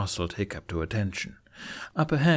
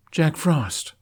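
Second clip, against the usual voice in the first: higher, louder spat name; 6 semitones higher, 4 dB louder than usual. Acted. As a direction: spit the name out in defiance. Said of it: "he spat".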